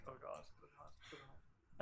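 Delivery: hushed mock panic muttering; lightly acted breathless fretting; hyperventilating panic. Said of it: "Mikan is basically just hyperventilating".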